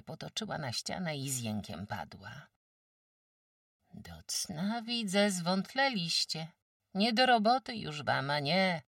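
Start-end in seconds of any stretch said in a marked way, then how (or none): 3.9-8.8 higher, louder village farmwife; a brisk countrywoman sizing up a sick guest; sturdy farmwife. Acted. Farmwife Kłębowa tells old Agata she's too weak, brisk.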